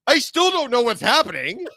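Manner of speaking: high, laughing through the words; laughing bewilderment. Retold or imitated. Co-host left alone, laughing at his confusion. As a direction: giggle out the confusion. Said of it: "And I'm like".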